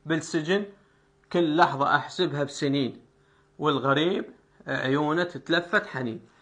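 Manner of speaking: plain recited verse; poem recitation. Shown as a demonstration. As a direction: recite the verse in its original delivery. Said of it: "أرجع النطق الأصلي".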